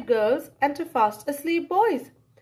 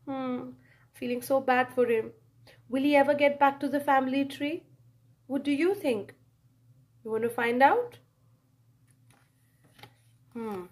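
soft aside; 5 dB quieter, faster than usual. Real, not acted. Reader's soft aside to child.

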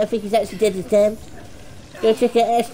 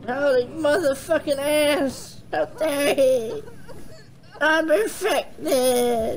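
slow, laughing groan; laughing despair; slower than usual. Real, not acted. Player realising he is infected, slow laughing dismay. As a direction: laugh it off in disbelief.

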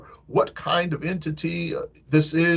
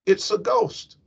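frightened cry; 9 semitones higher than usual. Acted. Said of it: "they cried out".

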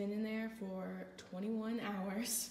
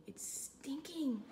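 whisper; 5 semitones higher than usual. Real, not acted. Repeats reacting to the smell.

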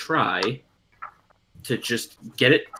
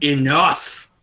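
restrained retelling of a shout; firm command, as if settling a dog; mock shout at everyday volume; absolute authority. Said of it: "with just absolute authority".

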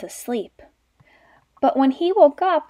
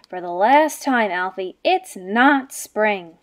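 grumpy growl; 3 semitones lower than usual. Acted. Mother bear scolding her cub for waking her, slow grumpy growl. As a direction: growl it like a bear woken once too often. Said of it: "and she growled".

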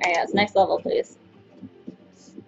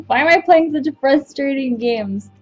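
slow, whiny complaint; exasperated whine; 4 semitones higher than usual. Real, not acted. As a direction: whine about the game. Exasperated after failing.

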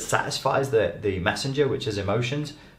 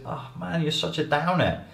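mock whiny complaint; 8 semitones higher, 3 dB quieter than usual. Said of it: "You say".

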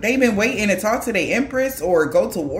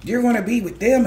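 mock shock; 3 semitones higher than usual. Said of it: "And they're shocked".

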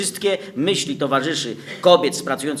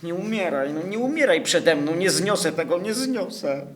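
pleading; 3 semitones higher than usual. Acted. Błaganie przy umierającej.

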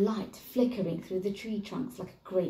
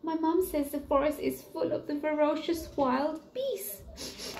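spooky warning; 8 semitones higher than usual. Acted. Boy warns of beasts.

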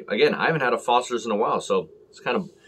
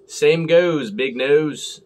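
response toast; 4 semitones higher, 4 dB louder, much slower than usual. Retold or imitated. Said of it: "followed in response by".

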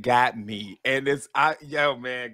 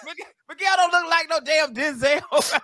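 mocking voice; 12 semitones higher than usual. Mocking the mirror app.

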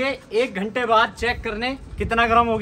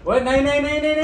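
panicked calling; 7 semitones higher, faster than usual. Real, not acted. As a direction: stop them in a rush.

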